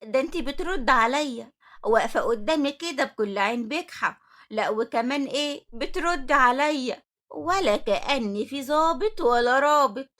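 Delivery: loud, mocking indignation, slowing at the end; sarcastic. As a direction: scoff loudly at her backtalk. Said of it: "نعمات ردت عليها بسخرية".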